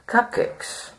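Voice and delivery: high, whispered reveal; eerie whispered cupcakes; ominous reveal. Acted. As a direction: breathe the title like a secret. Dramatic reveal of topic.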